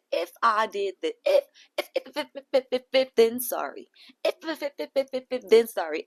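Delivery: stuttering if, if, if, then a grudging sorry; mock her half-hearted apology; mock stammering apology. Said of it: "didn't even give you a proper apology".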